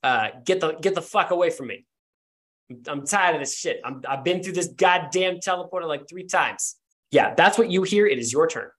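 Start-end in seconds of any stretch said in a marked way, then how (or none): 0.5-6.8 lightly acted irritated snarl; a touch of fed-up snarling; mild snarl. Game master voices a familiar figure fed up with teleporting, mildly snarling.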